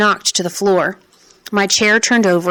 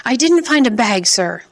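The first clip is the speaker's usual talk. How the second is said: higher, frantic shout; 5 semitones higher than usual. Acted. Boy pinned to the wall shouts at the suit man, higher. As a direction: shout the denial in terror. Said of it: "I was shouting".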